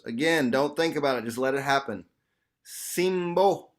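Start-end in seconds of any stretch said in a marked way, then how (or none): 2.6-3.7 light language syllables. Shown as a demonstration. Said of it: "two syllables".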